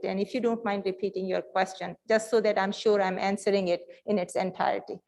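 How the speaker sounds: talking through a face mask; words dulled behind a mask; muffled by mask. Real, not acted. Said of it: "the mask is muffled".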